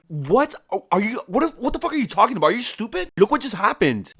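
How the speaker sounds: hammed-up disbelief at a reckless order; mock outraged Jin. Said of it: "Jin is like".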